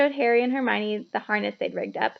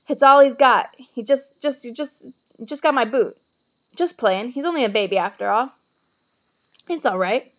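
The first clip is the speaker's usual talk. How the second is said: Hagrid voice; 2 semitones higher, 7 dB louder than usual. A narrator's reading. Hagrid excusing the dragon.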